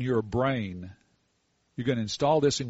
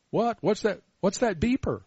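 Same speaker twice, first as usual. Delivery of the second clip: mock surprise; 7 semitones higher than usual. Acting surprised at the beeper.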